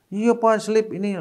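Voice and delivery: suara anak tinggi dan pelan; anak kecil menjawab. Retold or imitated. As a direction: meniru anak yang mengaku salah. (anak menjawab ayah, suara tinggi pelan)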